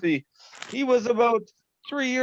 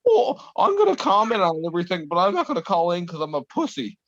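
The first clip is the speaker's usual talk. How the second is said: John Goodman. Retold or imitated. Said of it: "John Goodman's like".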